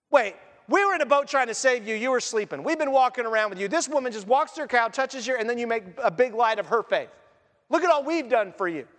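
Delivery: mildly aggrieved, lively complaint; indignant protest. Acted. Disciples complaining to Jesus about the woman, mildly indignant. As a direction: protest as if unfairly passed over.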